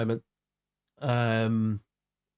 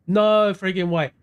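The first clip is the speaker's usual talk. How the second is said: 1 disbelief; 4 semitones higher, 6 dB louder, slower than usual. Real, not acted. Reacting to viewer's hometown.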